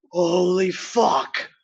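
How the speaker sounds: slow, drawn-out swearing; stunned. Retold or imitated. Tourist standing up into sudden vertigo, stunned and drawn out. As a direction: stretch it out in retold shock. Retold shock at the gorge.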